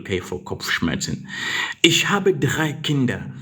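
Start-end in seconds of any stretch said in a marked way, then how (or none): 1.8-3.3 whispered. Shown as a demonstration. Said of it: "unvoiced reading".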